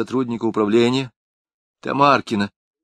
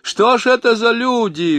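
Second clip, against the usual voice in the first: much higher, lamenting wail; an old janitor shaking his head; folksy lament; sighing janitor; 11 semitones higher, 5 dB louder than usual. A narrator's reading. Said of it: "вздохнул понятой дворник".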